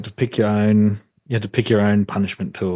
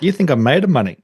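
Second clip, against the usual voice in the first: mock scolding parent; 5 semitones higher, 4 dB louder than usual.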